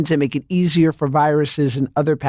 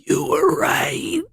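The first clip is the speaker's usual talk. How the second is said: broken, tearful whisper over FaceTime; fake crying whisper; 12 semitones higher, much slower than usual. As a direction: fake a pitiful sob so she feels guilty. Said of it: "you go".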